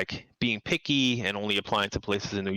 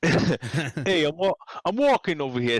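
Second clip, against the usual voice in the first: higher-pitched, hammed-up Italian Brooklyn accent; 6 semitones higher, 4 dB louder than usual. Shown as a demonstration. Guest jokingly demonstrates how New Yorkers talk, mock Italian Brooklyn accent. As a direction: put on a playful Brooklyn Italian shout-out. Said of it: "That's more like Italian Brooklyn accent".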